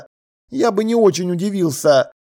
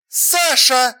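crying out; 6 semitones higher than usual. A narrator's reading. Alla stopping Sasha's sarcasm, crying out. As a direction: call out his name, a mild yell. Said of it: "закричала она".

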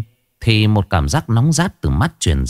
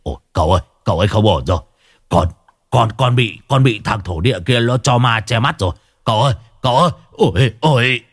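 panicked wail; faster than usual. A narrator's reading. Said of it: "Hải Nghẹo rú lên".

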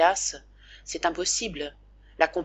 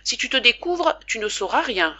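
a touch of cross scolding, higher; mock angry; 5 semitones higher, 4 dB louder than usual. Father pretending to be cross with his son in bed. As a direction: scold him gently for throwing off the covers. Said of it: "d'un ton fâché".

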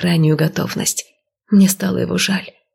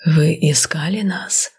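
serpent creature voice; slower than usual. Acted. Ghostly whisper line.

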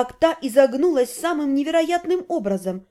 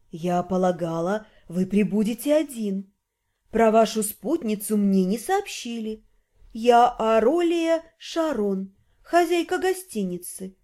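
lower, languid seductive woman; sultry female voice; 5 semitones lower than usual. Acted. Hostess character voiced.

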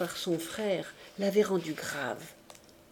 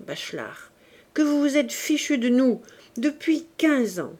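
indignant; 3 semitones higher, 5 dB louder than usual. Acted. Father confronts the uncle about money.

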